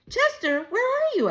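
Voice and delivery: high, loud call into the dark; crying out. A narrator's reading. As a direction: call out for Chester, lost. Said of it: "I cried".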